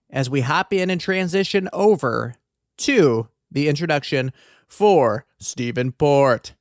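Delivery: slow, drawn-out true-crime host delivery; Candace DeLong. Acted. Podcaster introducing a killer, attempted host impression, slow and drawn out. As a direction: stretch each phrase out, a little low. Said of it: "trying to do the Candace DeLong thing".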